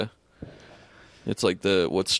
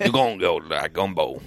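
put-on Cajun accent; 5 semitones lower than usual. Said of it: "We got the Cajun one back".

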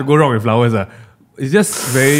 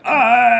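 a drawn-out mock yawn; imitated yawn; 8 semitones higher than usual. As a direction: yawn it out, half-joking. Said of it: "Is that the yawn?".

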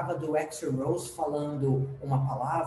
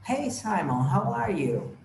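higher-pitched mock greeting; pretend friendly chat; 6 semitones higher, slower than usual. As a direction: chat to an imagined celebrity, pitched up. Pretend chat with a celebrity photo. (conversa fingida, em tom mais agudo)

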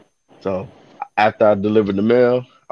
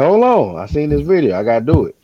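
higher, louder eager announcement; 6 semitones higher, 4 dB louder than usual. Retold or imitated. Carrier telling the lady he must try the TikTok stunt, eager. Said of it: "I said".

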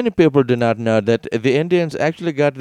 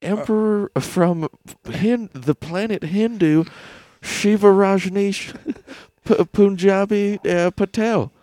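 slow, higher alien emperor voice; calm breathy gray alien; 9 semitones higher than usual. Pretend. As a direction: announce yourself slowly as an alien emperor.

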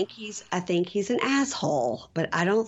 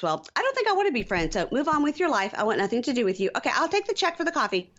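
mock defiant brush-off; 6 semitones higher than usual. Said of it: "And she goes".

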